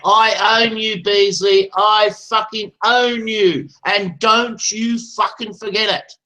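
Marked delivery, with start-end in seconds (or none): 1.8-6.1 slow, deliberate gloating threat; slow drawn-out taunting threat; slow menace. Real, not acted. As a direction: spell it out slowly so every word lands.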